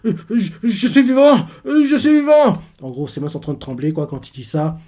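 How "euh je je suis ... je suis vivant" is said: much higher and louder, an excited cry; stunned joy. Retold or imitated. Trembling hero back in his body, cries out higher and louder in joy. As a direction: shout it out, amazed to be alive. Breathless hero realizes he's alive.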